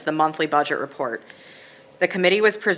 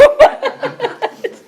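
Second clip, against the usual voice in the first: sneezing; 8 dB louder than usual. Real, not acted. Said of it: "Sorry, I'm gonna sneeze".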